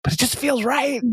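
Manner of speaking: high, wobbly fake sob through the words; mock crying. Sad husband insisting he's fine, in a mock sob. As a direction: whine it out like a miserable man faking contentment.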